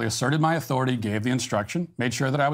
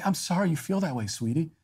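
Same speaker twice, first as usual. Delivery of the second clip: gentle parent voice. Retold or imitated. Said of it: "look her in the eyes and say".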